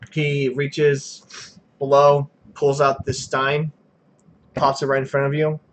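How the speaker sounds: slow, drawn-out narration of the barman's moves; game master describing the tavern, unhurried; scene narration. A narrator's reading. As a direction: set the scene slowly.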